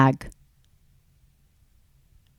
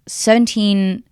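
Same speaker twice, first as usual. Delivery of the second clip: whispered; 4 semitones higher, slower than usual. Real, not acted. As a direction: whisper the shocking sum. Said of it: "seventeen hundred dollars this week".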